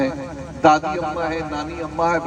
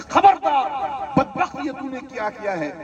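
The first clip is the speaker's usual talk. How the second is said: much higher, sharp mock reprimand; a mother scolding her thieving boy; 5 semitones higher than usual. Mother scolding her son for the stolen egg, high and stern. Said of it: "اور کہتی".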